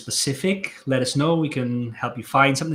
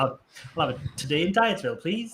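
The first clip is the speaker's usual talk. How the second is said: quick, bright game show request; Countdown contestant; 4 semitones higher than usual. Retold or imitated. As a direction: order it like a quiz contestant. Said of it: "that sounded like the game show".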